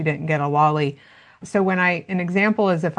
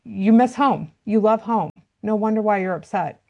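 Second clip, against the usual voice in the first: validating; 4 semitones higher than usual. Shown as a demonstration. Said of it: "wanted to turn around and just say".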